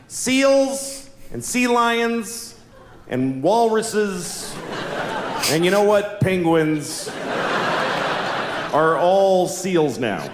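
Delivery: slow, grand TV announcer tone; scientist announcement. Pretend. Scientist on TV announces that seals are renamed. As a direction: proclaim it like breaking news. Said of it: "scientists could go on TV and say".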